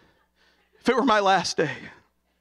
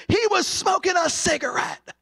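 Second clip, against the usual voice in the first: puppet voice; 9 semitones higher than usual. Retold or imitated. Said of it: "This is what Ranger Walker said".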